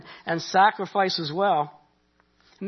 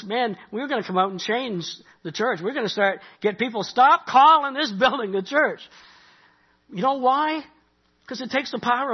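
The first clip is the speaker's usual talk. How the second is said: zealous students' declaration; 5 semitones higher than usual. Retold or imitated. Bible college students vowing to change the church, zealous. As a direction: imitate fired-up students, punching the final demand.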